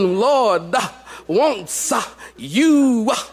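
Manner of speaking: mock halting preacher. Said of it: "he didn't say, "Duh," after every".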